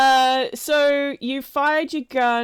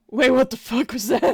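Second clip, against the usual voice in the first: startled, quick and a little raised; 3 semitones higher, 5 dB louder, faster than usual. Acted. Game master voicing two startled goons at a gunshot, quick mock shock. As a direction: blurt it out in light mock shock. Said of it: "other two are just sort of like".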